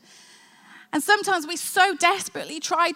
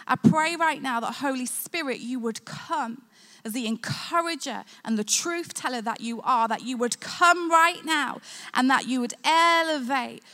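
prayer. Real, not acted. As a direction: pray gently over the hurting. Prays aloud over listeners.

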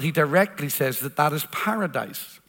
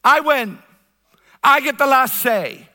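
higher, taunting, gloating voice; voice of death; 6 semitones higher, 4 dB louder than usual. Acted. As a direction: speak as death mocking the listener. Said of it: "the lie that death throws at you".

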